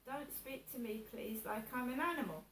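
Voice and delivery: calmly asking not to be spoken to like an animal; calm, positive. Shown as a demonstration. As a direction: say it evenly without shouting. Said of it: "in a positive manner".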